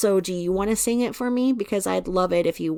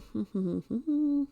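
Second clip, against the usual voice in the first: soft closed-mouth chuckle; small hummed laugh; 5 semitones higher, 5 dB quieter than usual. Real, not acted. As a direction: chuckle quietly to yourself. Chuckles while searching the comments.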